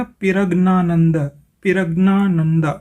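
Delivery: पिरग्नानंद with extra i after p and hard g; Tamil spelling read out. Shown as a demonstration. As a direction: say पिरग्नानंद as "pi-rag-naa-nanda". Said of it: "ये बन गया".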